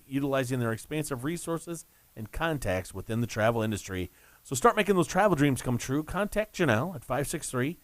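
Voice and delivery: sponsor read on radio. Real, not acted. Host reading Throne Travel ad to listeners, commercial read.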